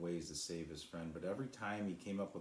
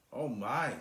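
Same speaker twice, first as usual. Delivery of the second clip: higher, louder gasp of wonder; amazed; 6 semitones higher, 7 dB louder than usual. A narrator's reading. Cloud feeling herself heal, high and amazed. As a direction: breathe it in amazement.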